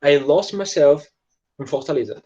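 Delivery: each word slow and separate; slow model sentence. Shown as a demonstration. Teacher showing students the sentence slowly. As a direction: lay it out slowly for the class. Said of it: "foi pra Fortaleza".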